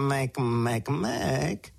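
gentle goat warning; bleating mother goat. Acted.

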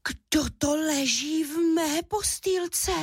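high, slow, amazed little cub; astonished squeak. A narrator's reading. Little cub finding a girl in his bed, high astonished squeak. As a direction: squeak in wonder like a baby bear. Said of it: "vypískl udiveně malý medvídek Míša".

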